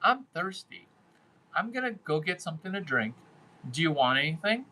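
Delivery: light mock female voice, quick in the middle; imitating a woman. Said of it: "This is how you sound".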